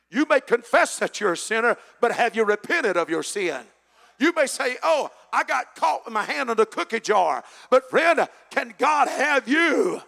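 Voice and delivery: building pulpit fervor; rising preaching. Real, not acted. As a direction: press the question on the congregation.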